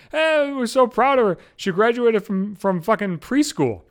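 slow, gushing proud-parent voice; mocking proud mom. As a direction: gush over the kid, slowly. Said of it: "She's like".

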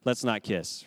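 low, soft half-joking refusal; a hint of post-covid caution; mock wary. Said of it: "We're like".

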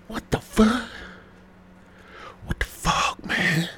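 squeaky high incredulous what the fuck; shocked disbelief. Real, not acted. Reacting to the girlfriend's gym excuse in high, shocked disbelief. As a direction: let your voice crack in disbelief.

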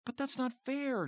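high whiny complaint, leaning on "not"; a kid's aggrieved whine; whining. A narrator's reading. Jonathan protests Tina voting, high whine. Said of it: "Jonathan whined".

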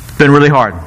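"really" leaned on, a light Trump voice; Trump impression. The speaker as Trump, stressing "really" lightly. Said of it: "I started sounding like Trump there".

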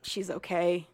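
hushed worried whisper. Retold or imitated. Watching a book scene, whispering worried. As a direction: breathe it under your breath. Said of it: "I was just like".

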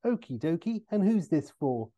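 lightly voiced chipper signer; breezy, slightly lifted patter; Austin Powers. Austin to the next fan without looking up, chipper. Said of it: "um, Austin says".

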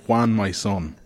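lightly voiced father sending off his son; Spanish father. Father sending his son to Ireland, lightly acted. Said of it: "a father ... says".

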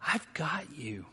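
quiet comfort after a long pause; loving reassurance. Acted. Jesus to sinking Peter, tenderly reassuring. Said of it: "Jesus is saying to Peter".

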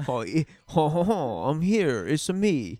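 hammed-up, shaky attempt at a French accent; bad French vampire. Co-host joins in as the French vampire, bad French accent. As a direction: play a comic French vampire, accent slipping. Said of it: "this French vampire is like".

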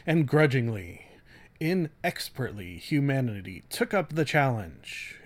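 light dramatic trailer read with weighty pauses; William Shatner style. Acted. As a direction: loosely ham up the blurb like a movie trailer. Continues dramatic blurb reading.

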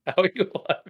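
high incredulous question; acted disbelief. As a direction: ask it high, as a baffled viewer. Baffled reaction to unbelievable survival.

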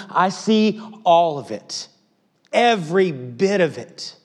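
from firm to a loud passionate cry; building impassioned preaching. Pretend. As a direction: build each line bigger. Voicing God, building intensity.

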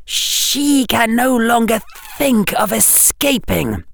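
high cold dark lord voice. A narrator's reading. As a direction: speak down to the snake, icy. Dark Lord speaking to the snake.

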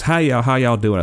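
high-pitched mock Southern greeting; imitated Southern accent. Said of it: "she's gotta be making this up".

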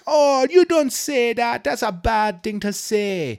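high, slow scolding; scolding nurse voice. Retold or imitated. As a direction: scold her gently but high. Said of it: "And she's like".

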